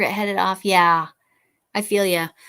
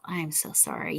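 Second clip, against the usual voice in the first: talking through a yawn; stifle a yawn mid-sentence; 3 semitones lower, 8 dB quieter than usual. Real, not acted. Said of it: "Yes, yawning".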